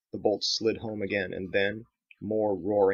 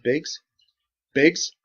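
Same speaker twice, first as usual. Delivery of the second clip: disbelieving; 7 semitones higher, 6 dB louder than usual. Acted. Disbelief at infected friend.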